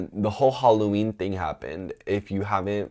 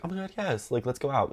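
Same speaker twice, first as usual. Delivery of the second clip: excited yes; 6 semitones higher, 5 dB quieter than usual. Retold or imitated.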